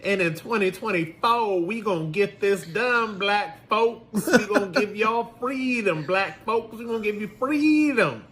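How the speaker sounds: mock Southern pandering politician. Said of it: "talk to them with the old Southern dialect".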